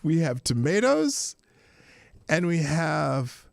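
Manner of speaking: imitating her fake Spanish accent, slow on cucumbers; mock Spanish accent. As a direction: drawl out cucumbers in a put-on Spanish accent, mocking. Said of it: "She says".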